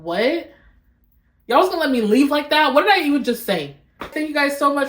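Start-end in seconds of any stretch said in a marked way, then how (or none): 0.0-3.8 surprised. Real, not acted. Catches her own slip.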